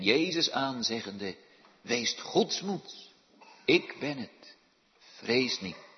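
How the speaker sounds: measured solemn reading of the Bible; scripture reading. Acted. Minister reading Matthew to the congregation, solemn reading. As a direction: read the passage with gravity.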